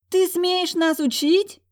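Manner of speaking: high, loud, slow shriek; furious sister shrieks at the peasant girl. Acted. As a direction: scream with outrage. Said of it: "завизжала Юола".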